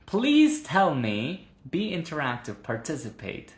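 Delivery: high, slow eager plea to the class; eager appeal. Real, not acted. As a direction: coax them to take part. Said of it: "asks class to interact".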